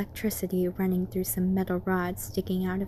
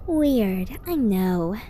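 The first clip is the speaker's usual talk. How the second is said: Twilight voice. Acted. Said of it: "replied Twilight Sparkle".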